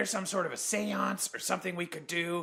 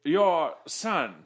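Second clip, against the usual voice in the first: Orson Welles voice. Pretend. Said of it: "It's me, Orson Welles".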